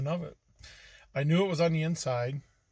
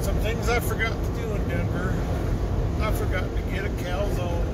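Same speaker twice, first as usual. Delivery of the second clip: higher, louder, drawn-out silly voice; odd put-on voice; 6 semitones higher, 5 dB louder than usual. Vlogger saying goodbye to Denver to viewers, in a silly put-on voice. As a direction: slip into a strange new voice for the camera. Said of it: "I don't know why I'm talking like this".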